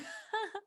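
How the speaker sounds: soft, high giggle; light laugh. Real, not acted. Host unsure her microphone works, soft self-amused laugh. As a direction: laugh it off quietly.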